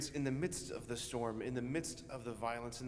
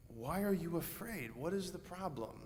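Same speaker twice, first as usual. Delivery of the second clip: gentle question; 3 semitones higher, 5 dB quieter than usual. Retold or imitated. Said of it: "Jesus asks us the same question".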